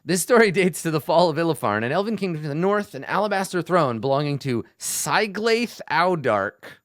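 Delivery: playful Italian accent on a quest text. Shown as a demonstration. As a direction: read the legend like a hammy Italian storyteller. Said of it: "I have to say this with an Italian accent".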